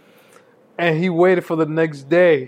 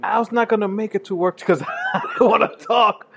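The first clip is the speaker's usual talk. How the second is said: laughing; 3 semitones higher than usual. Retold or imitated. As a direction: fake serious voice cracking up. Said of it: "I'm like, wrap it up".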